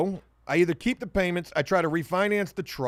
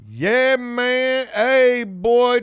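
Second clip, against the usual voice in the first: louder, higher, cheering the big reveal; excited hype; 4 semitones higher, 6 dB louder, much slower than usual. Real, not acted. Unveiling the dream car to viewers, loud excited cheer. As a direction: hype it like a showman.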